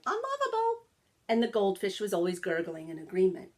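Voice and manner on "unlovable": a shrill high squawk, much higher; squawking parrot. A narrator's reading. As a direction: screech it like a mocking parrot. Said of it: "The parrot was always squawking".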